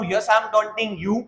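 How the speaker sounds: each word slow and spaced for learners; slow model answer. Shown as a demonstration. Teacher modelling the English answer slowly. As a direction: say it slowly so students can copy. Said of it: "हाँ, मैं तुम्हें ताना मार रहा हूँ".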